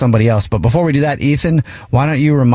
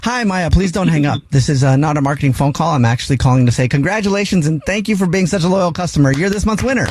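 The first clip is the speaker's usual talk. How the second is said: lightly put-on customer-service voice, pitched up; grocery store caller; 5 semitones higher than usual. Host posing as grocery clerk to prank-call the wife, lightly put-on higher voice. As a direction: pretend to be a store rep with good news. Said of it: "pretend to be from the grocery store".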